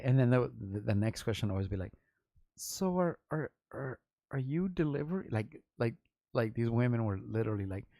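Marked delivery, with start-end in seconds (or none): 2.6-5.3 high, cooing imitation of a flirting caller; mock flirty woman. Mocking women who called the shop, in a high cooing voice. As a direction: coo it up high like a smitten caller.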